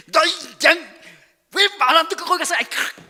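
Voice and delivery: loud, high, fast angry scolding; scolding shepherd. Pretend. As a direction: yell at the stray sheep. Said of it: "뭐 이러고 막 야단칠 터인데".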